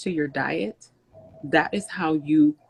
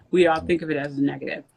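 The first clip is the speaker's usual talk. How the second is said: ice in mouth; faster than usual. Real, not acted. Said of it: "sorry, I have a piece of ice in my mouth".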